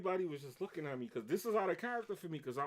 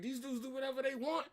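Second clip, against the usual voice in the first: a rapper; 11 semitones higher, 6 dB louder than usual. Retold or imitated. Worker refuses cleanup before boss, screaming and going crazy. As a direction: build to screamed, stretched-out refusals. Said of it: "I turned it to a rapper".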